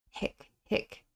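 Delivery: a mild, pained "hick" between sobs; pained sob hiccup. A narrator's reading. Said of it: "A pained voice".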